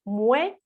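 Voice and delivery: "mueble" split into mue, pause, ble; teacher spacing out "mueble" as mue and ble; syllable by syllable. Shown as a demonstration. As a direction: break "mueble" into two separate syllables. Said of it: "hacer la división".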